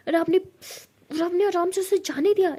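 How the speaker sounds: slow, high, crying accusation; half-sobbing hurt; a hint of tears in the blame; tearful reproach. Pari hurt, accusing Ishani.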